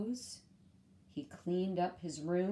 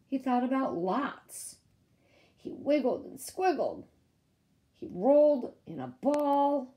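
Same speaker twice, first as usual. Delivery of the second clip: rising higher and louder as he tosses; building excitement; 5 semitones higher, 5 dB louder than usual. A narrator's reading. Storyteller building up Harry's restless night, louder each line. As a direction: read it faster and bigger as the worry grows.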